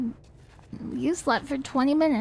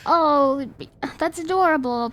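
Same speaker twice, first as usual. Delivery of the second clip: cutesy voice; 4 semitones higher, 4 dB louder than usual. Retold or imitated. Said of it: "in a cutesy enough voice".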